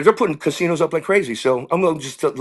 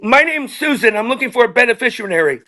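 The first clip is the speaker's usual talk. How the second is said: much higher, lightly put-on lady's voice; woman fan; 7 semitones higher than usual. Woman from the crowd answering the singer, higher lady voice. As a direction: play a sweet audience lady answering.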